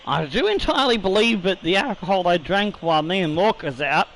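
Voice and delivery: tipsy, slightly slurred words; slurring. Real, not acted. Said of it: "you are slurring your words a bit".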